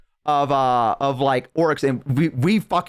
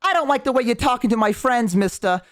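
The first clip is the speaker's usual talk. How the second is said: high-pitched scolding goblin; 8 semitones higher than usual. Retold or imitated. Goblin confronting orcs over friends, indignant. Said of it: "this goblin came up to us".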